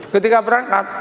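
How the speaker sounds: ordinary delivery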